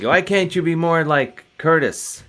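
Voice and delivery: mock Midlands wife's complaint; Midlands English accent. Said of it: "but in that accent, saying".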